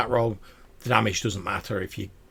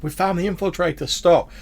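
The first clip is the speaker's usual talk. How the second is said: guards shouting; 8 semitones higher, 3 dB louder than usual. Acted.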